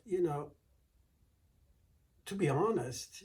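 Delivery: high, sugary, innocent voice; sweet innocent wife. Acted. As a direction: play it sweet and harmless to fool him. Wife belittling the giant.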